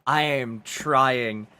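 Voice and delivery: put-on slow, careful German accent; German accent attempt. Gamer straining to hold a German accent. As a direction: sound each word out slowly in German accent. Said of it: "I am trying to do German".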